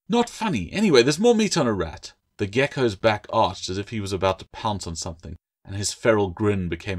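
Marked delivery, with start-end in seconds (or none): 0.1-2.1 higher, sulky little creature retort; sulky gecko. Acted. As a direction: shoot back, a bit put out.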